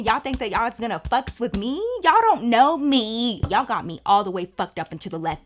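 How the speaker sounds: loud, heated rant at the women; retold telling-off. Confronting the ex and her friends, angry retold rant. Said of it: "I was like".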